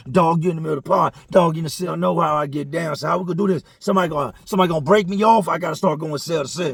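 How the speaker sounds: loud, high, menacing rant; threatening yell. Retold or imitated. Trap threatening to search cells, angry yell. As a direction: threaten the whole pod out loud.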